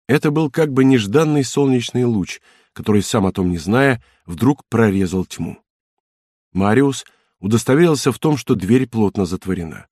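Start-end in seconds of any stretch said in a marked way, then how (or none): none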